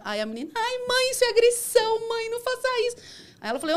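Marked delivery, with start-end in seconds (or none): 0.5-3.0 very high, mock wailing girl; pleading daughter. Daughter begs her mother to stop the aggression, pleading. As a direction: imitate a daughter's high-pitched protest.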